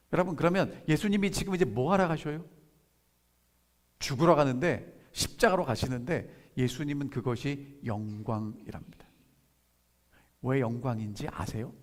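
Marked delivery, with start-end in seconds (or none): none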